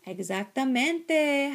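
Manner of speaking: loud, high, drawn-out doggy howl. A narrator's reading. Doggies agree with the kitten, howling. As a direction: howl the word like a dog pack. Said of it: "howled the doggies".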